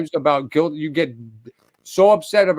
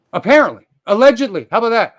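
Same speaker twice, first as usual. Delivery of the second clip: high, sarcastic jabs; mocking; 6 semitones higher, 5 dB louder, faster than usual. Real, not acted. Streamer mocking his rival's claims, sarcastic high jabs. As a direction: toss each word off with a sneer.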